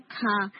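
کھا with a puff of air, the weak hit; breathy کھا to show the error; aspirated کھا demo; wrong aspirated kaaf. Shown as a demonstration. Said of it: "آپ ہٹ ویک کر رہے ہیں".

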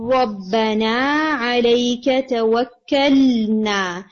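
رَبَّنَا عَلَيْكَ تَوَكَّلْنَا recited slowly with a clear lam; recitation demo. Shown as a demonstration. Teacher re-reading the verse to fix the student's lam, slow recitation. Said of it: "جب first time آپ نے پڑھا".

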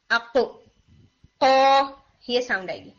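"اق" with a strong hit at the back of the tongue; deep qaf sound. Shown as a demonstration. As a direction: end "اق" on a hard uvular q stop. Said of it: "strong ہٹ دیں گے تو یہ sound آئے گی". ("اق" کے قاف پر زبان کے پچھلے حصے سے مضبوط ہٹ)

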